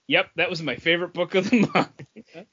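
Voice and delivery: light mock-cheerful Paul; lightly voiced, chuckling through it; imitating Paul. Cohost mimicking Paul's favourite pick, lightly cheerful. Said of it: "Paul's like".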